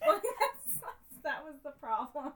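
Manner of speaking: laughing while talking. Real, not acted. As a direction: talk through laughter. Laughing at story.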